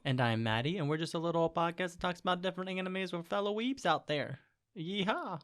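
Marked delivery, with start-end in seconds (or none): 4.8-5.4 high twangy country yeehaw; cowboy yeehaw done too country; hick yeehaw. Pretend. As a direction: holler it like a hick. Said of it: "Why did I say it so hick today".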